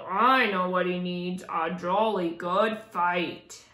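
a hint of a growling storybook lion; lightly growled lion.

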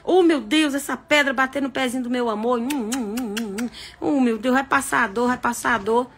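sappy cooing over a sore toe; mock doting boyfriend. Boyfriend comforts girlfriend's sore little foot, cooing. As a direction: soothe like a smitten boyfriend, hammed-up. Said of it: "Ó, o amor".

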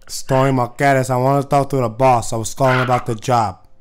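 put-on Latino accent. Prank caller as Tony, heavy accent. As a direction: lean on each word like a tough guy. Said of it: "too popular of a fucking accent".

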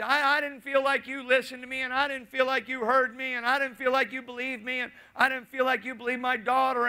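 a hint of the aggrieved churchgoer pleading; hurt complaint.

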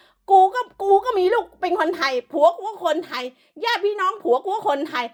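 mocking imitation. Vlogger mimicking the foreign wife's boast, mocking high voice. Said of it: "มันพูดว่า".

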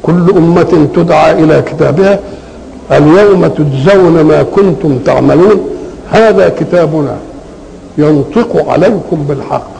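slow, measured verse reading; Quran recitation. Acted. Teacher reciting the verse to students, measured recitation. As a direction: recite the verse with drawn-out words.

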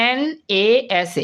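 "এন এ এস এ" with a stop after each letter; stopping at each letter. Shown as a demonstration. Teacher shows students where one must stop, halting between letters. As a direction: spell it haltingly, "এন, এ, এস, এ". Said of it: "এখানে থামতে হচ্ছে".

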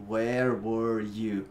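very slow, low, stretched-out words; slow model pronunciation. Shown as a demonstration. Teacher repeats the tongue-twisting question, very slow and careful. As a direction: stretch each English word for a learner. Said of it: "Dá uma enrolada na língua".

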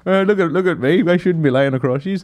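lightly voiced lad showing off; mock laddish joker. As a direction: ham up a drunk guy sprawled over his mates.

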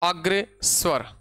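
slow, word-by-word dictation; measured classroom dictation; dictation pace. Real, not acted. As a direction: say it slowly for note-takers. Dictating the heading to students.

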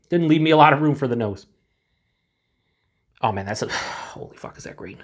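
sniffing beer while talking; glass in front of mouth. Real, not acted. Seen 0: Beer glass held over mouth and nose, sniffing, while speaking.

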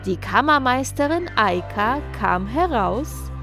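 plain reading voice

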